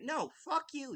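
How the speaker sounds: a real furious jab at the end of a rant; angry outburst. Real, not acted. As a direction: spit it out in real disgust.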